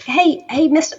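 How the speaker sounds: put-on high, loud teenage call; shrill teenager. Teenager runs up before sinking, shrill call. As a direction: shout for attention like an eager teen. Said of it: "shrill voice like only teenagers have".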